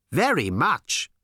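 high, loud, slow alien eagerness; enthusiastic aliens. Acted. Aliens accepting Tricia's invite, slow and eager. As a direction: stretch it out eagerly.

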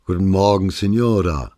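a bright, loud hello across the counter; hearty loud greeting. Acted. Shopkeeper greets customer loudly.

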